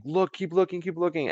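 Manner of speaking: high-pitched, hushed urgency; urgent retold plea. On the phone to friends running up, high urgent mock plea.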